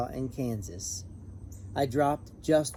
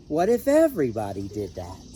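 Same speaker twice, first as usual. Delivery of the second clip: louder call across the field; a hint of a referee, louder; official shouting; 3 semitones lower, 6 dB louder than usual. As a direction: call out like a referee waving his arms. Official waves arms on field.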